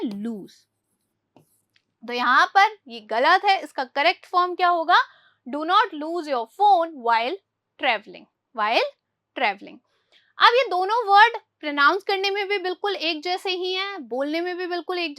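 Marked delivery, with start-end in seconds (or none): 5.5-9.8 very slow, word by word, for the class; slow dictation. Shown as a demonstration. Teacher reads the English example to pupils very slowly. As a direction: spell out every word for Hindi-speaking pupils. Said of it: "teacher reads the corrected sentence".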